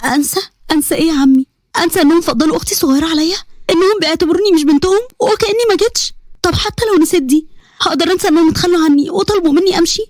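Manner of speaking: rising, pained questions; tearful outburst. Acted. Niece refusing to forgive her family, tearful and rising. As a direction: let the hurt pour out. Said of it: "ساجدة عيطت".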